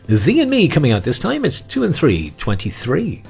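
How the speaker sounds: high bingo call; bingo caller. Acted. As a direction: call the number brightly.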